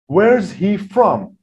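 where's he from, with WHERES stressed and slow; stress the key words. Shown as a demonstration. Teacher showing sentence stress on WHERES. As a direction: lean on WHERES and slow right down. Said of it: "There's stress".

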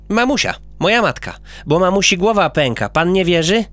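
put-on little boy quoting his mother; boy character.

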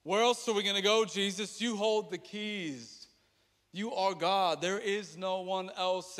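fervent urgent plea. Acted. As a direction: plead it out with conviction. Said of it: "And they say".

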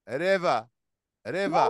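"ريفا" said as riva, no r, ending on an open a; ending in a, not r. Shown as a demonstration. Teacher models river for pupils as riva. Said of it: "أكنها أ، مش أو".

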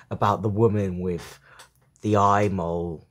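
measured poem recital with pauses; poetry reading. A narrator's reading. Reader sharing a poem about a father, measured recital. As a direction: read the poem line by line, pausing.

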